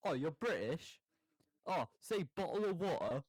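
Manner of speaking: a British guy's hammed-up American drawl; American tourist. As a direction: bottle of water done as a fake American. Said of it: "doing the American with a British accent".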